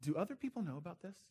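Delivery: put-on, soft, wholly sincere and earnest tone. Retelling someone stopping the speaker halfway through, imitating a sincere question. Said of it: "with all sincerity and looks at me".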